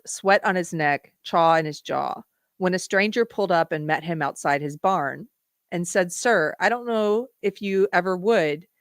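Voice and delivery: reading song lyrics aloud as a poem; spoken lyric reading. Acted. Host reads the lyrics to the viewers, as a spoken poem. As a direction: read the verse out to the viewers.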